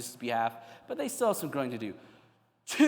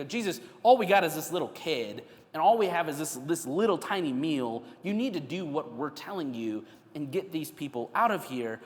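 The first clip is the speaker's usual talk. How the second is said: mild, exasperated protest; sarcastic disrespect; 2 semitones higher than usual. Acted. Disciples arguing with Jesus over one small meal, mildly sarcastic. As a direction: complain with a touch of sarcasm. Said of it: "this is sarcasm, this is disrespect".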